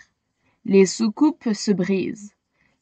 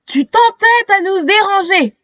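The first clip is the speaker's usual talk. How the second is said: hissing; 7 semitones higher than usual. A narrator's reading. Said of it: "siffle-t-il".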